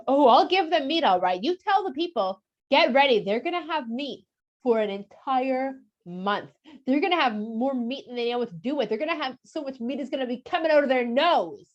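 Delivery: you want meat, you'll get it; a touch of sarcastic warning; ominous irony. Retold or imitated. Hashem promises meat, ironically.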